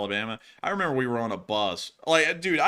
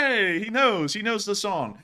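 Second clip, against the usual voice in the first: retold delight; 9 semitones higher, 4 dB louder, slower than usual. Retold delighted reaction to the guide.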